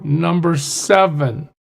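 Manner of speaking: ordinary delivery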